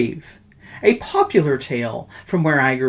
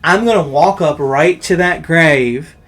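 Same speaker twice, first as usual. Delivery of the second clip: put-on drunk bravado; 6 dB louder than usual. Drunk's bold boast.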